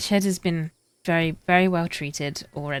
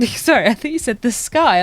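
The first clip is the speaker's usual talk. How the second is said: ordinary talk, nothing marked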